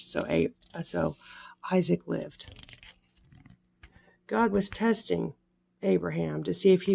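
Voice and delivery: gentle storybook reading voice; sweet old lady. A narrator's reading. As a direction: read it warmly to little ones. Reads Bible story to children.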